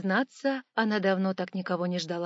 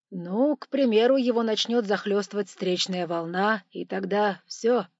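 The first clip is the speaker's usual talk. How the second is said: engineer voice; 7 dB louder than usual. Acted. Engineer answers.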